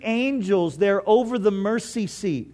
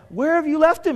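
urgent Mary; 8 semitones higher, 4 dB louder than usual. Retold or imitated. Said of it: "she's just like".

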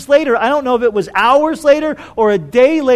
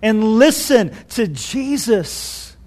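mock divine rebuke; slower than usual. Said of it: "Peter being rebuked by the Heavenly Father".

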